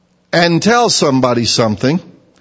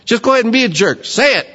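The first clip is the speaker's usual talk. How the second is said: higher, fast, exasperated; exasperated inner retort; 5 semitones higher, faster than usual. Retold or imitated. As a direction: roll your eyes and blurt it out. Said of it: "and you think".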